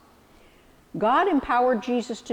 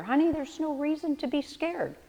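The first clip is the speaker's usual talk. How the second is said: gentle reassuring parent; 4 semitones higher than usual. Retold or imitated. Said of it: "like a parent saying to the new bike rider".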